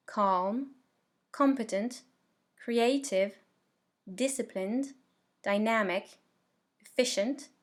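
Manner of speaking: word-list drill with each stressed syllable clear; pronunciation model. Shown as a demonstration. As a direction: say each adjective separately for learners to practise, pausing after each. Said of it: "je vais vous prononcer la liste".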